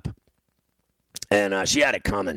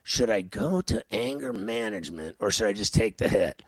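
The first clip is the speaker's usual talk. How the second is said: softer, musing to himself; thinking it over; 6 dB quieter than usual. Retold or imitated. Telling how he weighed anger management, musing softly. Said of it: "I'm thinking about it".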